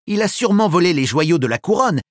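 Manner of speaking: quick, urgent exclamation. Acted. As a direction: blurt it out fast. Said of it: "s'écrie Holly".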